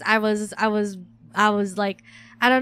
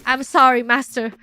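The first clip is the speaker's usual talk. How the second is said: mock servant apology; 3 dB louder, slower than usual. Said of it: "And I'm like".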